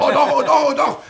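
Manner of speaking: high laughing oh doch; gleeful laughing insistence; laughing eagerly. Acted. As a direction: laugh it out, delighted.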